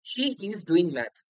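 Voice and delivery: very slow, each word spaced out; slow dictation. Shown as a demonstration. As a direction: read the example slowly for students. Teacher reads example sentence. (খুব ধীরে উদাহরণ পড়া)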